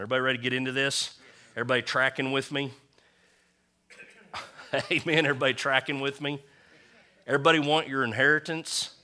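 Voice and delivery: high, loud hype to the crowd; rousing call-out. Real, not acted. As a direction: pump up the congregation. Preacher rousing the congregation.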